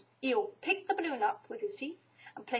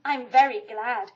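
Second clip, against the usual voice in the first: happily; 9 dB louder than usual. A narrator's reading. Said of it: "said Pooh happily".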